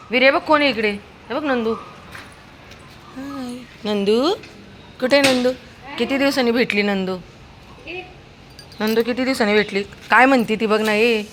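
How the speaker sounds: delight at a long-missed friend; excited reunion. Real, not acted. Owner showing her dog his old friend, excited high pet voice.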